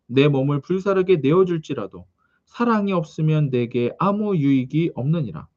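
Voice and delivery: measured, solemn Bible recitation; scripture reading. Acted. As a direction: read the verses out in even, cadenced phrases. Reads scripture to congregation. (성경 봉독하듯 또박또박)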